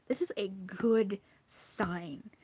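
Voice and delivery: hushed, slow, breathy encouragement; whisper. Real, not acted. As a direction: lean in and whisper the good news.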